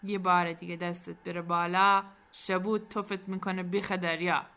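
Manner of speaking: composed warning with a firm, loud start; cool threat. Acted. Captain stops Barsam's slap, coolly threatening him. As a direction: threaten without losing your cool. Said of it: "با خونسردی گفت".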